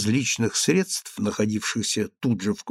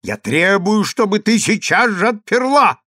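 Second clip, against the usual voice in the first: higher, louder stern demand; angry demand; 7 semitones higher, 4 dB louder than usual. Acted. Consul kicking the door, angry demand. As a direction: demand it furiously. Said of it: "говорил сердито консул".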